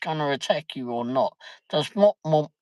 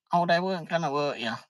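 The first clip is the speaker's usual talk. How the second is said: fast, high mocking parrot of her line; mock her breezy reassurance; mocking imitation; 5 semitones higher, 3 dB quieter, faster than usual. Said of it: "come out the end of it and say".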